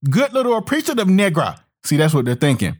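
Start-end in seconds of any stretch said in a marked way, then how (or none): 0.1-1.6 patronizing. Retold or imitated. Voicing condescending white approval.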